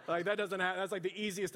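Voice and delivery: amused laugh breaking in. Real, not acted. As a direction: laugh at how easy it was. Amused by the easy conversion.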